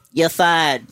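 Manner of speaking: lightly impersonated boss firing someone; Donald Trump. Acted. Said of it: "only one I can do is Donald Trump".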